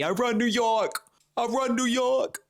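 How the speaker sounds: high-pitched mock New York accent; a rapper. Fan quoting her favorite rapper, in New York accent. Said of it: "she loves Jay-Z".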